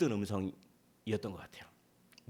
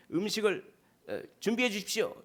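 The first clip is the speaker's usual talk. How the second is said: high-pitched, lightly raised call; mildly calling out; 8 semitones higher than usual. Acted. Hungry Peter asks those below to prepare food, mildly calling out. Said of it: "소리를 좀 크게 지르는 걸".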